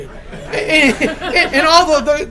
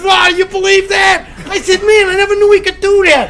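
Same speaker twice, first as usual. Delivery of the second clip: raised pitch, loud astonishment; amazed; 5 semitones higher, 4 dB louder than usual. Acted. Father and daughter marvelling at the dog, amazed. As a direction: marvel loudly at what just happened.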